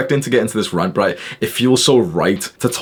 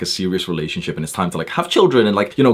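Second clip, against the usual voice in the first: usual speaking voice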